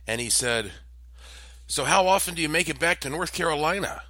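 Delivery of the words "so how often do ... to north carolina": higher and quicker, breezy question; lightly voiced breezy stranger; friendly stranger. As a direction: drop the creepy fact casually. Stranger reveals knowledge.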